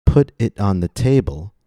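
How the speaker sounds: first syllable of "table" stressed. Shown as a demonstration. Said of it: "first syllable of the word table is stressed".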